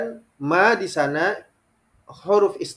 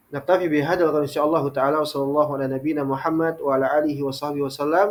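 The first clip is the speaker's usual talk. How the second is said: fast, rattled-off closing blessing; closing formula; faster than usual. Acted. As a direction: run through the closing formula quickly. (doa penutup berbahasa Arab yang diucapkan cepat)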